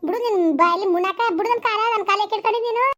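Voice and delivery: angry protest. Acted. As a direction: push the pleader away with the voice. Wife orders him off her feet.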